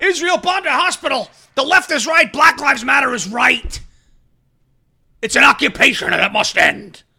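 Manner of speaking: mocking protester chant; sarcastic impression of protesters. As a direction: sneer out the protest slogans.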